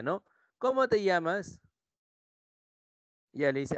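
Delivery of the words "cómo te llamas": raised pitch on CÓMO, asking; questioning. Shown as a demonstration. Teacher repeats his question to her, questioning tone. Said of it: "Le pregunta él a ella".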